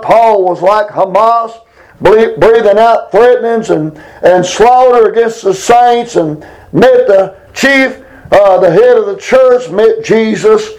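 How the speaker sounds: fervent spoken prayer to God; earnest pleading prayer. Real, not acted. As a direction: pray aloud with earnest pleading. Leads a congregational prayer.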